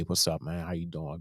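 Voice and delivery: relaxed celebrity shrugging off a fan; real cool, calm. Retold or imitated. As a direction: answer coolly and unbothered. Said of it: "Real cool, real calm".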